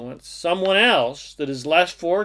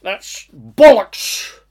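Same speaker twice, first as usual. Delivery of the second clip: put-on slow, louder English accent; 3 semitones higher, 8 dB louder, much slower than usual. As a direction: stretch it out like an indignant Brit, English accent. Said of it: "Gotta say that with an English accent".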